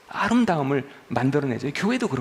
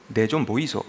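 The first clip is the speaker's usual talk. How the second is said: Gyeongsang accent, pitched lower; Gyeongsang dialect; 4 semitones lower than usual. Shown as a demonstration. Preacher demonstrating regional speech to congregation, Gyeongsang accent. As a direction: say it as a Gyeongsang local would. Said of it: "경상도는".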